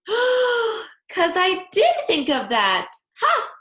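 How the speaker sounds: high, slow, gleeful crowing; triumphant discovery. A narrator's reading. Junie crows to herself about her clever idea. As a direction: announce the idea like you just won. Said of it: "I did a gasp".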